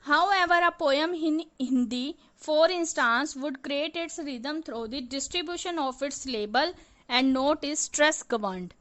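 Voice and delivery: slow, deliberate reading of the English line; textbook reading. Acted. Teacher reading the poem example to students, slow and deliberate. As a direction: read it word by word from the page.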